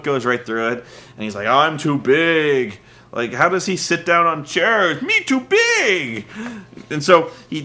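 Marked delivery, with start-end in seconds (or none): 1.5-2.8 slow lumbering giant voice; lightly voiced slow big man; slow dopey giant. Big Show demonstrating he is too big. 5.0-6.3 high, slow dumb caveman voice; hammed-up caveman giant. Mocking Big Show as caveman.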